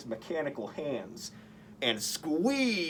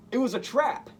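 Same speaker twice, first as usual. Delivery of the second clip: dramatic reveal; 9 semitones higher, 5 dB louder, faster than usual. A narrator's reading.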